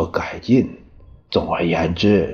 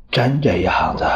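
惊愕地高声反问; 一下子惊得叫出来; startled cry; 3 semitones higher than usual. Acted. Hears of the suicide note. (听说写了遗书，惊问出声)

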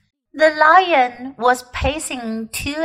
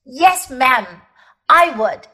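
indignant. Acted. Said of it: "temper at last got the better".

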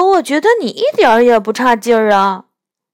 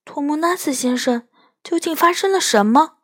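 concerned asking; 8 semitones higher, faster than usual. A narrator's reading. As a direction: ask gently, worried for him. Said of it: "又关切地问道".

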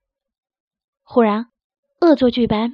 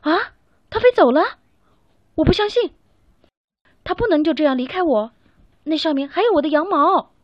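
heartbroken; 5 semitones higher, 3 dB louder than usual. Acted. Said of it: "贝里奥心痛极了".

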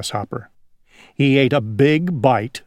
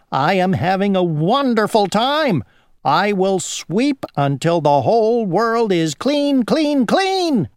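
high gleeful housefly; buzzy housefly; 6 semitones higher than usual. Acted. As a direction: soar way up on the last clean. Housefly declares endless sweeping.

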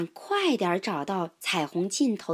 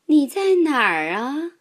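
higher, louder calling out; mother duck calling; 6 semitones higher, 7 dB louder than usual. A narrator's reading. Mother duck searches for her duckling, calling. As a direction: call across the grass for her duckling. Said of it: "鸭妈妈呼唤着".

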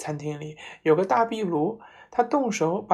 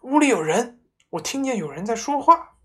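high, loud scared wife; wife panicking about a voice in the house; frightened; 6 semitones higher, 8 dB louder than usual. A narrator's reading. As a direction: blurt it out, terrified. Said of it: "脸都白了".

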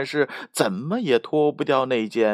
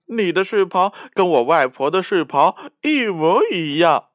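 a lightly voiced little girl, higher and amused; 4 semitones higher, 4 dB louder than usual. Red Riding Hood laughing at the fallen wolf, lightly amused. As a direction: tease him cheerfully. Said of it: "小红帽说".

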